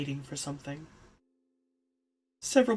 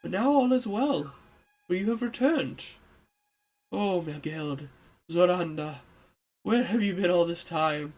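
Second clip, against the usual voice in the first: put-on old man voice.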